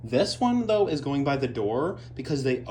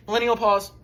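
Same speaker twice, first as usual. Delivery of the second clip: announcing; 8 semitones higher, 7 dB louder than usual. Pretend.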